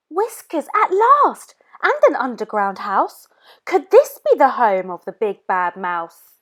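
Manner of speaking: put-on eager young monster on the hunt; Gruffalo's child. Child voice through snow scene.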